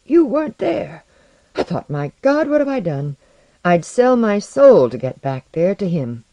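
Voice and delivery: high, loud, urgent confession; distraught outpouring. A narrator's reading. Visitor telling his friend of an empty return, distraught. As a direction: pour it out, pitch leaping on the questions.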